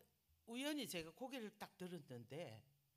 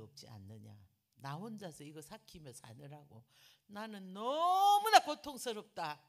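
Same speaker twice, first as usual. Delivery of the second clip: builds from calm to a loud cry of pain; building outcry; 10 dB louder than usual. Retold or imitated. Telling the younger sister her pain, building loud. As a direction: let it swell to a loud anguished cry.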